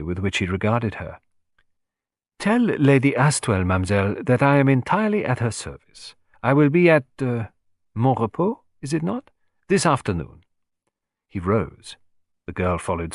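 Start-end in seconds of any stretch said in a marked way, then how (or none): 2.4-10.4 lightly voiced French detective, courteous; a hint of Poirot's French politeness.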